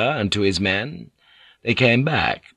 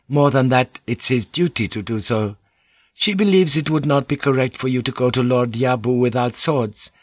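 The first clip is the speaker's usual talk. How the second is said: lightly voiced polite interpreter; Mariko, courteous; 3 semitones higher than usual. Mariko relays the consort's advice to Blackthorn, lightly voiced and courteous. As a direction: translate formally, pitch a touch raised.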